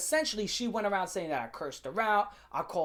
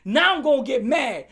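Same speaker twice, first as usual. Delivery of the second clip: high, loud mad threat; losing it; 9 semitones higher, 5 dB louder than usual. Retold or imitated. Student punching lockers in a rage, losing it. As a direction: raise pitch and volume, daring them to watch you snap. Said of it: "Like, I was losing it".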